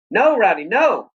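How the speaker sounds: high, loud pleading cry; urgent yell. A narrator's reading. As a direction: shout to stop the dog. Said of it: "I yelled".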